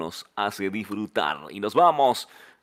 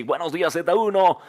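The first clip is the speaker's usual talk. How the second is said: radio announcer; 2 semitones higher than usual. Acted. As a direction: belt the station greeting. DJ's station greeting.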